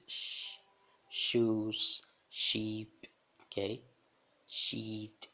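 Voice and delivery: sheep, hushing sh. Shown as a demonstration. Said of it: "som do nosso X". (shoes com som de X)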